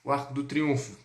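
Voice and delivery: mock brash tourist calling out; hint of a rude tourist shouting questions. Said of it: "Não chegue lá na França já falando".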